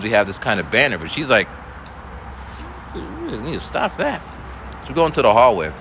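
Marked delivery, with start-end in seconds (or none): 2.9-4.2 scolding student. Retold or imitated.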